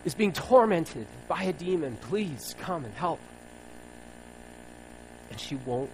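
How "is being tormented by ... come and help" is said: calling out. Retold or imitated. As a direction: cry out to Jesus for your daughter, then ease off. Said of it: "she calls out for Jesus".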